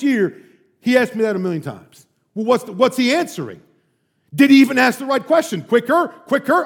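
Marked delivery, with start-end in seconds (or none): 5.6-6.6 pushy professor. Retold or imitated. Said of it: "this is what he would do".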